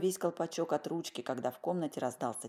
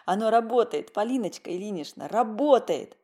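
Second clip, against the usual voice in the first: ecstatic; 6 semitones higher, 7 dB louder than usual. A narrator's reading. Twirling granny round in joy.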